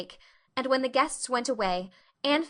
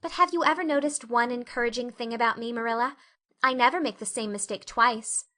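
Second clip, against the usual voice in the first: eager Anne; 2 semitones higher than usual. Acted. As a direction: talk herself into hope. Anne earnest, cheering up.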